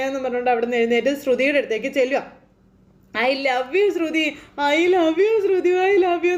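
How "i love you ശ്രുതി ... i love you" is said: put-on drunken pleading. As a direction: stretch each I love you like a tipsy husband. Drunk Sudhi hugs wife pleading. (ഭാര്യയെ കെട്ടിപ്പിടിച്ച് കുടിയന്റെ നീട്ടിയ സ്നേഹപ്രകടനം)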